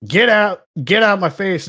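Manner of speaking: a sarcastic roast shouted at a coworker; retold yelling. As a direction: tear into him, half joking. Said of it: "I know you're yelling at him".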